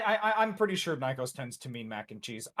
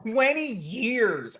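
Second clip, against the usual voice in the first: surprised exclaim; 9 semitones higher, 6 dB louder, slower than usual. Real, not acted. Echoing the shock.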